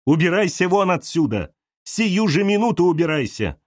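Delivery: a wife ejecting the intruder; furious ordering. Acted. Galya orders Arina out. (Галя гневно гонит вон)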